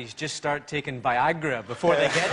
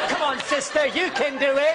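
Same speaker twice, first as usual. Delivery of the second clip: higher, louder cheerleading coax; loud, high encouragement to a nervous passenger; Gok Wan impression; 10 semitones higher, 4 dB louder than usual. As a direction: gee them on through the scanner like a camp stylist. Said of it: "get Gok Wan out to Heathrow".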